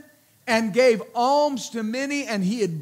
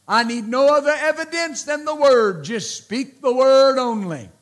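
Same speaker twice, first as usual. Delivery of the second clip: preaching emphasis; 5 dB louder than usual. Acted. Preacher declaring the centurion's words.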